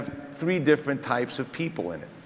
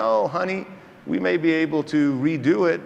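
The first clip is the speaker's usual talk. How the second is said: higher-pitched take on a South African colleague; lightly voiced South African accent, pitched up; 5 semitones higher, 4 dB louder than usual. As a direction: imitate a debonair South African surgeon. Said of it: "he has that great South African accent".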